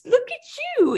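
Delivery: very high cooing pet name; imitated movie line. The cat thinks it is her name, high cooing imitation. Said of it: "in that vo-, voice with that inflection".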